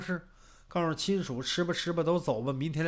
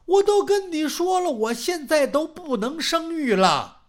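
exasperated wife; 6 semitones higher, 5 dB louder than usual. Acted. Wife snaps at husband.

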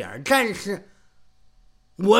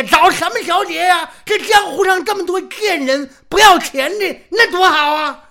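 high, loud, gleeful shouting; mock shout; 10 semitones higher, 6 dB louder than usual. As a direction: bellow it like a wicked joke. Jokingly shouting advice at apprentices.

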